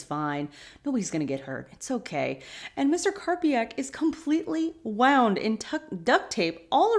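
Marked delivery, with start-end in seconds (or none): 0.9-2.4 low, soft mock reassurance; calm a frightened man down; reassuring. Dean soothing the tied-up Mister Karpiak, low and reassuring. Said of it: "trying to reassure Mister Karpiak".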